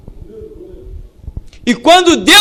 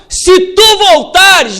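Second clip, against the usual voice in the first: defiant; 6 semitones higher, 4 dB louder, much slower than usual. Retold or imitated. Prophet defies the king.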